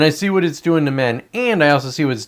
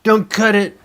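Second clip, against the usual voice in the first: higher pleading voice of a worried viewer; lightly put-on pleading viewer; mock viewer plea; 8 semitones higher than usual. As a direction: viewer begging him not to cut, mock plea. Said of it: "I know you're like".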